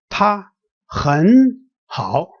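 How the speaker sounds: 她很好 slowly, high 她, rising 很, dipping 好; changed tone. Shown as a demonstration. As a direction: lift 很 into a rising second tone in 她很好. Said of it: "change the first one to a second tone".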